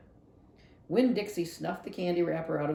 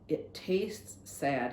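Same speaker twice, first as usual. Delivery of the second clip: slow, sighing words; mild sad sigh; 2 semitones lower, much slower than usual. Acted. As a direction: let the sadness drag it out slowly. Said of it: "and sighed".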